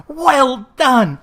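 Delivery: hearty loud Well done; cried out. A narrator's reading. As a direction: praise the dancers. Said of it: "cried out".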